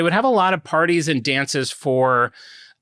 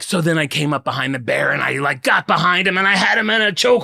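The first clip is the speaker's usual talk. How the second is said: tall-tale storyteller; 2 semitones higher, faster than usual. Retold or imitated. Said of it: "he's like".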